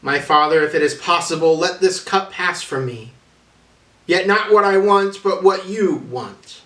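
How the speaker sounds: a pleading prayer, lightly voiced; Jesus praying.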